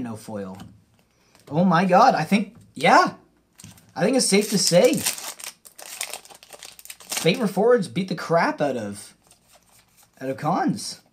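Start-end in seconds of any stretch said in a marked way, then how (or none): 1.5-11.0 high, loud triumphant announcement; excited. Real, not acted. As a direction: crow about the winner. Declares the winning set.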